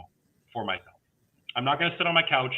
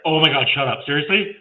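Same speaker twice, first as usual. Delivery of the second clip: mock disbelief; 3 semitones higher, 6 dB louder than usual. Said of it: "And he's like".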